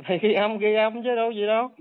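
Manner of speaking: a scoffing laugh, pitch up a little. Real, not acted. Brushing off the man's recording threat with a laugh.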